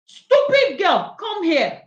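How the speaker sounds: loud, slow imitated angry shout; imitated mother shouting. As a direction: bark it like an annoyed mother. Mother yelling at daughter.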